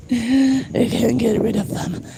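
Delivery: high, slow possessed wail; demon voice. Acted. Streamer straining a possessed demon voice. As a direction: wail like something took over. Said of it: "that really hurts my voice".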